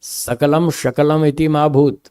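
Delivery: slow chanted sutra; measured scriptural recital; slow Sanskrit recitation. Shown as a demonstration. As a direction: recite the verse slowly. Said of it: "ऋषियों ने लिखा".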